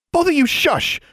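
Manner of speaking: high, loud hushing order; exclaim. A narrator's reading. Alexandra exclaims at the screeching birds, urgent. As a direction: shush the birds sharply. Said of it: "she exclaimed".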